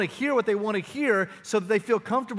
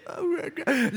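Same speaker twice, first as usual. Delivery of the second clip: mock wail; 11 semitones higher, much slower than usual. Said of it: "she's like".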